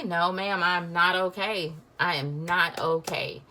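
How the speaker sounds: mock tearful reply, slow and insistent; imitated sobbing. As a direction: act out being too upset to be okay. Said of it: "through the sobbing".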